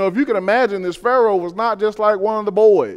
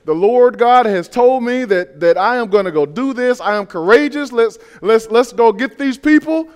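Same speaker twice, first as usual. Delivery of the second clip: mock courageous Moses; 4 semitones higher, 4 dB louder than usual. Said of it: "Moses would be standing there saying".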